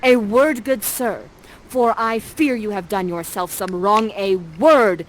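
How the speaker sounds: loud, stern accusing queen; booming stage accusation; Prospera accusing. Acted. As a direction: call him out with regal command. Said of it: "says this".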